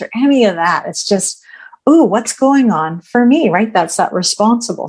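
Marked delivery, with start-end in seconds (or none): 1.9-3.5 mildly intrigued self-questioning; open, curious "ooh" into a question. Acted. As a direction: wonder aloud with gentle curiosity. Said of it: "And we get curious about it".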